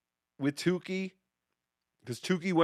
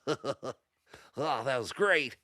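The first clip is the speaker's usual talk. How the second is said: a lightly voiced Hacky, low and soft; low, quiet mock Hacky, half-hearted; Hacky impression; 5 semitones lower, 8 dB quieter than usual. Host doing Hacky for the stream, a lightly put-on low voice. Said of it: "that was my Hacky impression".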